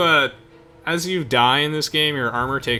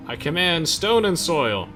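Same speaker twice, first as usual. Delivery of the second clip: grand, drawn-out higher-pitched incantation; mock spellcasting battle cry; 7 semitones higher, 4 dB louder, slower than usual. Player hamming up a spell cast in game, mock battle cry. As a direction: proclaim it like a hammy spellcaster.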